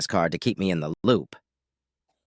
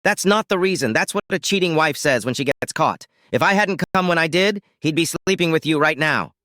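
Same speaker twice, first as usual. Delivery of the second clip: higher-pitched heated rebuke; angry accusation; 6 semitones higher than usual. Acted. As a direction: keep berating her, voice raised in pitch. Husband keeps shouting at wife.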